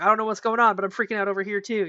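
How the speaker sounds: lightly acted flustered outburst, quickening; mock freaked-out dog. Storyteller voices her spooked dog to her friend, mock freaked-out. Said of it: "he saw we freaked out".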